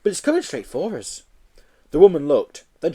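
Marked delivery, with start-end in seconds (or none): 0.0-1.2 put-on high childlike call to mummy; little boy voice. Small boy calling to his mummy, high childlike voice. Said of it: "said the boy".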